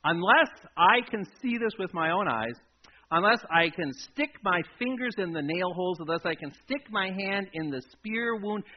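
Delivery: emphatic refusal, hammering the words. Acted. Doubting Thomas refusing the disciples' report, very emphatic. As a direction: insist forcefully, slowing on the final words. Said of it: "he says it in a very emphatic way".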